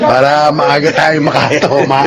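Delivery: slow, chuckling punchline; laughing joke. Acted. Friend laughing, joking they can drink early.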